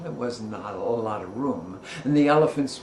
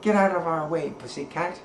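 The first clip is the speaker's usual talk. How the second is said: squeaky crab voice; 3 semitones higher, faster than usual. Shown as a demonstration. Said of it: "I don't really do a land crab voice".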